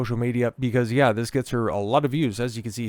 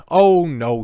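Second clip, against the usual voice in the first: mock dismay; 6 semitones higher, 9 dB louder than usual. Mock reaction, gritted teeth.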